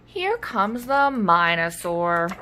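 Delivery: slow, dragging dread; a fed-up dino at the playground; weary mutter. Acted. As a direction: groan it out slowly, here he comes again. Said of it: "muttered Stegosaurus".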